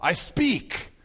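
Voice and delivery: lightly voiced kingly command, "hold" punched; commanding interruption. Voice from off screen halting a wedding, commanding. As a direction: halt the proceedings like a royal. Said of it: "a voice from off screen".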